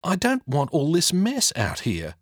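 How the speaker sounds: put-on a kid fed up with the mess; complaining boy. Jack complains to the genie about the mess.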